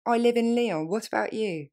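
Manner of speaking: quick, natural pace. Shown as a demonstration. Teacher modeling native speed for learners. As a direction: run it together naturally. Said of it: "plus rapidement".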